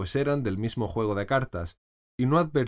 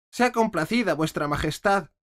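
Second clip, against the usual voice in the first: very humble; 8 semitones higher, 3 dB louder than usual. A narrator's reading. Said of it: "en tono muy humilde".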